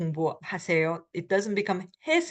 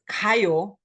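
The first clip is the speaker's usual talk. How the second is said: forceful; 3 dB louder than usual. Shown as a demonstration. Teacher shows learners how the bare command sounds, forceful. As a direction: put force on it, like an order. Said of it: "it sounds very forceful".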